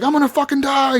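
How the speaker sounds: high-pitched retold panic; mock freaking out. Podcaster retells trapped YouTuber's plea, mock panic. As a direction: imitate a man panicking, pitch jumped right up. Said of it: "He's, like, freaking out".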